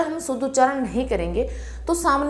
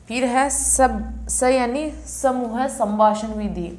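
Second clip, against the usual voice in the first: slow spelling out; slower than usual. Shown as a demonstration. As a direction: drag out each syllable of the mnemonic. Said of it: "यानी अंत्य अनुवाक घिसबा गई". (धीरे धीरे समझाते हुए)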